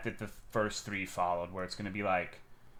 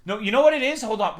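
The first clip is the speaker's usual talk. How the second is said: 1 excited realisation; 9 semitones higher, 7 dB louder, faster than usual. Real, not acted. Sudden realisation about image.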